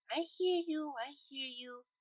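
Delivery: a weary mutter to the groaning friend. A narrator's reading. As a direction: grumble it under your breath. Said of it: "she muttered".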